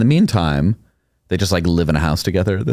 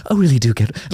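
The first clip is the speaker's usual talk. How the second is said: with a smile; 7 semitones higher than usual. Retold or imitated. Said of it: "like, with a smile".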